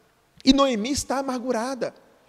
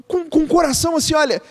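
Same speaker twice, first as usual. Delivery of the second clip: earnest call; 5 semitones higher, 4 dB louder than usual. Real, not acted. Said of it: "pastor preaching".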